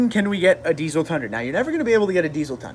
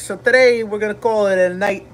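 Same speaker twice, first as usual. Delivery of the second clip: "today" and "call it a night" in a thick New York accent, higher and louder; 5 semitones higher, 4 dB louder than usual. Shown as a demonstration. Streamer redoing his sign-off in a New York accent. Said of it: "I'll do this in, in a New York then".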